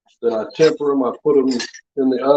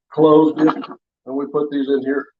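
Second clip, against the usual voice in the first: hiccups. Real, not acted. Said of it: "I don't know why I'm hiccuping".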